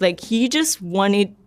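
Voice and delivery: usual speaking voice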